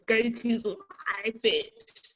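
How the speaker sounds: lightly put-on high voice, drawn out; mock high-pitched voice. Complaining about Japanese Goku, mock high-pitched voice. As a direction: stretch it into a slightly squeaky imitation. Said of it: "he has a really high-pitched voice".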